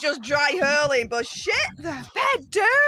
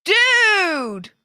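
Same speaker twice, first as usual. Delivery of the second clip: shocked gasp; 5 semitones higher, 3 dB louder than usual. Real, not acted. Sees curdled milk.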